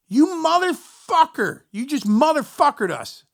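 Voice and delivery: high, loud and slow curse; drawn-out furious yell. Retold or imitated. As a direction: stretch every word in outrage. Band sees the roadie back.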